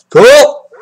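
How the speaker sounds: suddenly pleased, punch it out; excited. Real, not acted.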